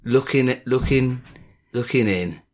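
halting, hushed mock-stalker murmur; creepy sex talk. Host playing peeping admirer at the keyhole, mock creepy. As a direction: creep up on it in small broken phrases. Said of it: "This is the creepyometer raising".

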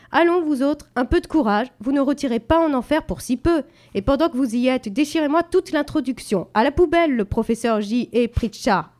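high, loud, rousing push; rousing teacher. A narrator's reading. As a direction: egg them on boldly. Teacher urges boys on.

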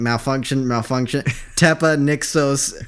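slow, stilted robot voice reading a glitch code; robotic error message. Pretend. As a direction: play a malfunctioning robot, spelling out each bit. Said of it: "my robot name".

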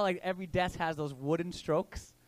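usual speaking voice

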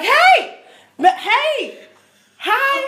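high, loud eager shouting hello; excited greeting. Retold or imitated. Imitating a local excitedly hailing Americans. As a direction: call out like an overjoyed stranger waving. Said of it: "Like, excited".

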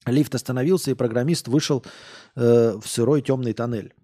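ordinary delivery

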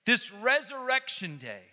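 high, loud, fervent preaching; full-force preaching. Real, not acted.

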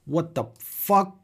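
slow, drawn-out exasperated outburst; raging gamer. Real, not acted. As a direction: drag each word out in disbelief. Exasperated at donor's double link.

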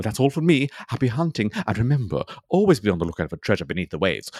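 a hint of a pompous TV explorer presenting; lightly voiced eccentric ocean explorer. Eccentric explorer introduces his podcast segment, lightly pompous. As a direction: play a self-important treasure hunter, lightly. Plays character Edmund Hankering.

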